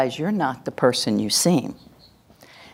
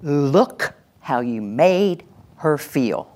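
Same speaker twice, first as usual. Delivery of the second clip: blaming; much slower than usual. Shown as a demonstration. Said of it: "And the next one".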